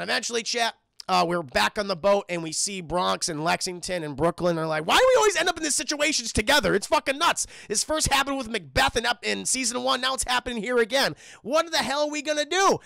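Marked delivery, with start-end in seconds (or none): 4.9-12.8 high, fast, fed-up complaint; mock panicked young gargoyle; exasperated gargoyle. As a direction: whine about being trapped again. Gargoyles voiced complaining on boat.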